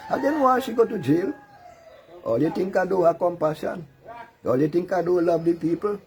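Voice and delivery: high, loud gloating to the opposition; boastful rant. Acted. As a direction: crow it at the opposition, pitch way up.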